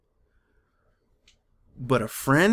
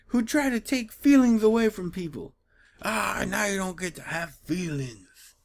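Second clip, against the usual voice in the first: higher voice sliding down in mock gloating; mock sadist taunt; 5 semitones higher than usual. Reader mocking the comic's feeling-stealing sadists, mock taunt. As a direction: taunt like a cartoon villain.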